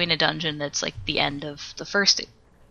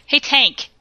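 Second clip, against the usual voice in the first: upset and petty; 3 semitones higher, 4 dB louder than usual. Retold or imitated. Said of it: "really upset and petty".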